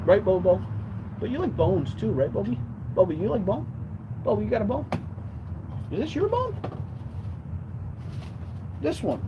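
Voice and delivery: high, sing-song voice for the dog; pet talk. Real, not acted. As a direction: coo at the puppy with a bone. Owner baby-talking her dog.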